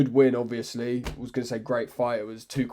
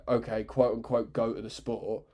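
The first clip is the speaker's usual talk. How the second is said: softer, resigned quote unquote goat of the sport; grudging ironic quotes; 2 semitones lower, 5 dB quieter than usual. Real, not acted. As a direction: mutter it like a reluctant concession.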